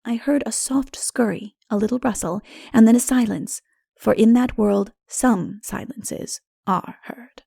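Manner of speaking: ordinary delivery, nothing marked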